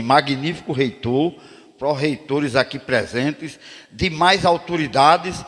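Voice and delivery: slow, ceremonious opening to the rector; formal address. Retold or imitated. Poet opening his speech to the rector, ceremonious and slow. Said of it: "eu disse assim".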